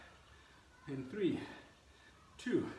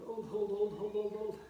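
loud, urgent counting of holds; loud coaching; 5 semitones higher, 5 dB louder, slower than usual. Real, not acted. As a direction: push them through the hold. Coach urging through hard hold.

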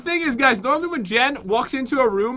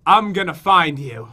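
slow, lower attempt at an Irish accent; pretend Irish accent; 5 semitones lower than usual. Shown as a demonstration. Showing partner the line to say, pretend Irish accent. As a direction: put on an Irish lilt, drawn out. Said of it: "Pretend you're Irish and say".

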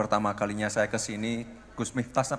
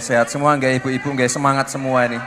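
louder, higher call to the audience; rousing the crowd; 3 semitones higher, 6 dB louder than usual. Real, not acted. Mayor rallying tired audience, raised excited call. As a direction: pump up the mothers in the crowd.

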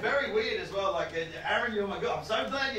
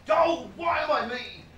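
mock anguished cry, pitched up; self-pitying wail; 7 semitones higher, 5 dB louder than usual. Comic sets the show's tone, mock anguished lament. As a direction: bemoan being yourself in a higher voice. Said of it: "want the tone of the show to be like".

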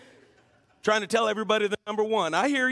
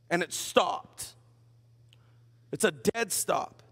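low, soft and slow; a preacher stressing the dead stop, low and slow; slow dramatic pause; 7 semitones lower, 5 dB quieter, slower than usual. Acted. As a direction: let it land heavily. Preacher slows for emphasis.

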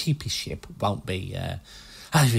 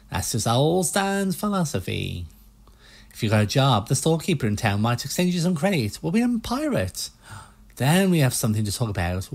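put-on US salesman accent; 5 semitones higher than usual. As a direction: pitch the boats like a pushy American car salesman. Player keeps voicing Stan.

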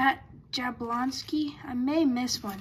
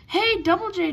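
bright burst of excitement at a star card; sudden loud cheer for a favourite player; excited greeting; 6 semitones higher, 6 dB louder than usual. Real, not acted. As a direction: call out the nickname like spotting a hero.

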